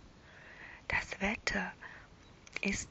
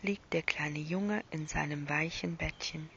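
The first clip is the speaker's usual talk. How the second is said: whispered bedtime story. A narrator's reading. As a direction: whisper it like lulling a child to sleep.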